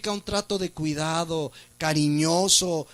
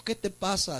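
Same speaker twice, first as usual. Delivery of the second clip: tender concern; 7 dB quieter than usual. Retold or imitated. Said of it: "Le dijo".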